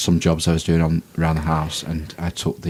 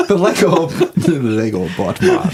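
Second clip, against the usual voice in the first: put-on Jamaican accent; 9 semitones higher, slower than usual. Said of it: "Did I say that in a Jamaican accent?".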